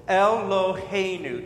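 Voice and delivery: Eloheinu as el-lo-HEY-nu, syllable by syllable; teacher modelling Hebrew Eloheinu; four-syllable Eloheinu. Shown as a demonstration. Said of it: "It's four syllables".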